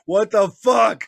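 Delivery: loud, high pretend indignation; hammed-up outraged outburst; mock outrage. Imagined reaction to teasing nickname.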